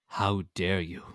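posh mock outrage, building from restrained to loud; posh angry ma. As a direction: imitate an outraged mother gone posh. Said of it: "you know when she gets posh".

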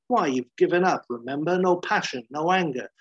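mildly heated, goading challenge; taunting. Acted. McGee goading Banner about giving up, taunting. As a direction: needle him, punching each phrase.

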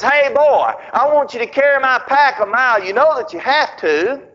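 mock commanding holler; imitated crying out. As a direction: call an order over to a worker. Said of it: "he cries out and he says".

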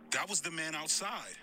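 put-on scared girl whisper. Frightened girl answering operator.

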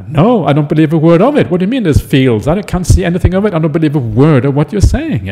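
mildly indignant doubting friend; disbelieving. Acted. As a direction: dismiss it with brisk scepticism. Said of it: "the fellow at the bottom".

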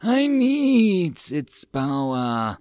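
very slow, hissing snake voice; hissing serpent. Acted. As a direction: hiss it close in his ear. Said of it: "the serpent hissed".

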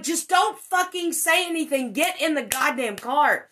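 loud, high panicked command; frantic order. Retold or imitated. Ordering her friend into the car, loud frantic command. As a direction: bark it at him to get moving.

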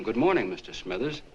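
mild retold call to a neighbor; retold call over. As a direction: call it over without really raising your voice. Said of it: "so I yelled over to him".

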